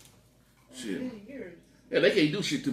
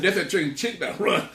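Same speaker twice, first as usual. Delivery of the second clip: laughing; 4 semitones higher, slower than usual. Retold or imitated. Joking to cousin about chicken.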